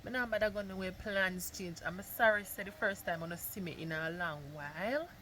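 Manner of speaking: hushed, soft whisper. Real, not acted. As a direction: keep it down, someone sleeping. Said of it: "Me have to whisper because".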